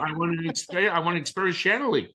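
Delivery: high, begging plea; pleading. Retold or imitated. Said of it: "And I'm like".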